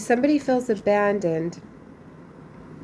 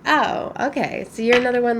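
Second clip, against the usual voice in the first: surprised realization; 5 semitones higher, 3 dB louder, faster than usual. Retold or imitated. Realizing mother is another one.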